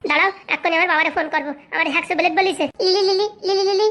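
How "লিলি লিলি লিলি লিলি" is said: calling a name from afar, repeated. Acted. Wife calls out to Lili in another room. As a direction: call her across the house.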